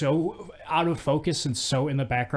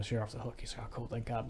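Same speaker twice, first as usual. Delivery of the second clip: quiet; 12 dB quieter, faster than usual. Retold or imitated. Retells a low-key exchange.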